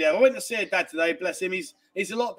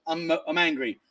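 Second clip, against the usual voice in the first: angry, mimicked; 3 semitones lower than usual. Host mimics her sudden mood switches, mock angry. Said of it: "like a light switch".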